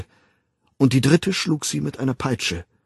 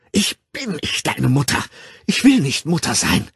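raised, furious outburst; wütendes Schreien; 5 semitones higher, 4 dB louder than usual. A narrator's reading. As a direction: lash out in angry rejection. Mother screams while slapping child. (wütend und hoch schreien)

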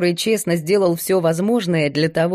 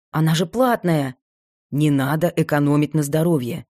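put-on lightly lowered young man; calm assistant voice, a bit lower; 3 semitones lower than usual.

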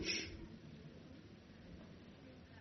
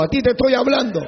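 higher, firm but less loud; firm address; 4 semitones higher, 4 dB louder, faster than usual. Acted. Pastor scolding an abusive husband, firm. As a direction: point at him. Confronting the listener.

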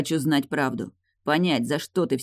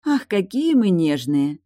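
slow, higher, louder mock sympathy; mocking mannered; 5 semitones higher, 5 dB louder, slower than usual. Tilda mocks Morton's hurt feelings, slow theatrical tease. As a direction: drawl it out, teasing like a fake lady. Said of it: "Она манерно прижала ладонь к груди".

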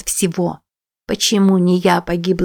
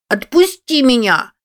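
put-on struggling boy; 7 semitones higher than usual. A narrator's reading. Boy struggling in her grip.

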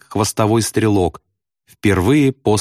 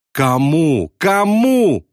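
yelling; 5 semitones higher, much slower than usual. A narrator's reading. Bombardier to sobbing pilot, exasperated yell. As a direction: question climbing to a high cry. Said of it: "заорал Яссарян".

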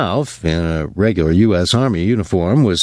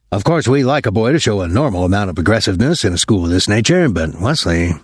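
lightly voiced formal, uneasy colonel; a hint of a stiff school colonel choosing words; flustered colonel. Colonel listing a boy's fights to his father, lightly voiced unease.

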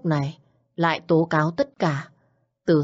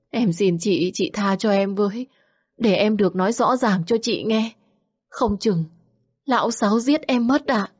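higher, begging mistress, a touch of tears; tearful pleading; 4 semitones higher than usual. Acted. Xuyến on her knees begging Nương, mild tearful pleading. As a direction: plead for mercy on her knees, lightly weepy.

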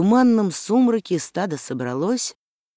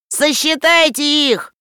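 much higher, slow scornful call; contemptuous shout; 10 semitones higher, 4 dB louder, slower than usual. A narrator's reading. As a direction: throw their greed back at them. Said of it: "презрительно крикнул Маугли".

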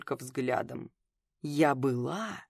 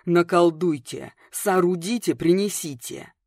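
alarmed demand; 6 dB louder than usual. A narrator's reading. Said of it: "встревоженно потребовала я".

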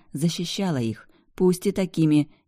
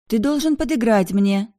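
high, louder insistence; insistent; 8 semitones higher, 5 dB louder than usual. A narrator's reading. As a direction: keep pushing, won't calm down. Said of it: "не успокаивалась Бьянка". (настойчиво, не успокаиваясь)

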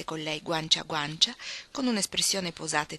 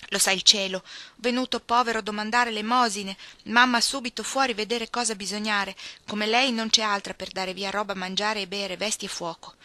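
voce alta e forte, in italiano stentato; domestica indaffarata; 3 semitones higher, 5 dB louder than usual. Acted. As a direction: sfogo sonoro della domestica, che cala verso la fine. Anna parla in italiano stentato. (domestica indaffarata, a voce alta)

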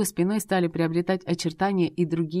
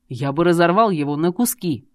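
much louder, roaring threat; furious threat; 7 dB louder than usual. Acted. Jealous husband threatens to rip the rival, roaring. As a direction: roar it out, ready to tear him apart.

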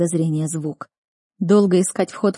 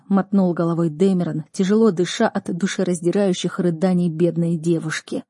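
ordinary delivery, nothing marked

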